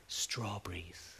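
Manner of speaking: slow, breath-only whispered word; drawn-out, low whisper of the dying; weak whisper. Retold or imitated. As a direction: whisper it faintly, imitating someone very weak. Dying woman's weak whispered answer retold.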